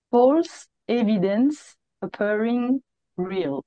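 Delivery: slow English with a French accent; English acronym read out. Shown as a demonstration. Teacher quoting Mary's acronym, slow, French-accented English. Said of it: "vous excuserez peut-être mon accent".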